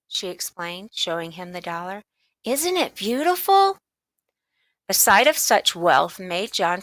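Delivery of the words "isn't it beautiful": put-on girl voice. A narrator's reading. Girl admiring coin.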